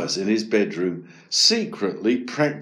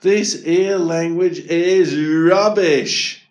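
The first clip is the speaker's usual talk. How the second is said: slow, loud, higher lament; sad; 6 semitones higher, 6 dB louder, slower than usual. A narrator's reading. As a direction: drag it out in frustrated dejection. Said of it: "thought Eric sadly".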